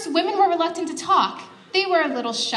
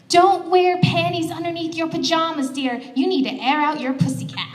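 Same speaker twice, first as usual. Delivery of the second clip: lightly voiced mother advising her daughter; a hint of motherly instruction, starting higher; 4 semitones higher than usual. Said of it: "her mother told her".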